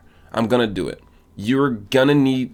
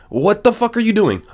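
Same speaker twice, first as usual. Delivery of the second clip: high, loud exasperated shout; real exasperated shout; outraged yell; 12 semitones higher, 5 dB louder than usual. Real, not acted. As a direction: yell at the screen in disbelief. Outraged at saved copies.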